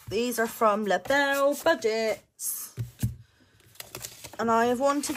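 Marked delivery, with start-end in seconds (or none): 0.1-2.7 slow, savoured brand reveal; slow announcement. Acted. Revealing the sticker shop to viewers, slowly. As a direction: present the name like a prize.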